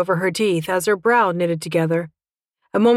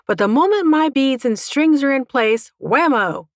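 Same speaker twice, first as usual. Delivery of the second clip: higher-pitched, animated venting; exasperated dragon mother; 5 semitones higher than usual. Acted. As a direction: rant as a fed-up dragon mum.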